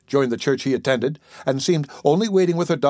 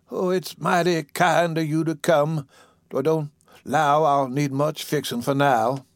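lightly voiced ailing old lady; a hint of a feeble patient, politely grateful; weak invalid; 3 semitones higher than usual. Sick woman thanking her visitor, weakly.

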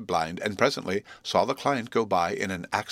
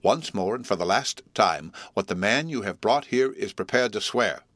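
stern. Acted. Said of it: "said my guardian very sternly".

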